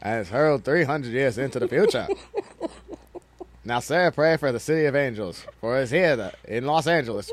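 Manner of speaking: mock Boston accent trailer voice; hint of a Boston accent in a trailer read; lightly Boston-accented movie trailer narrator.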